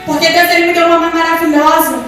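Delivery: fervent church testimony, voice lifted; preach. Real, not acted. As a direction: proclaim it to the congregation.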